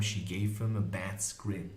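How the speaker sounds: usual speaking voice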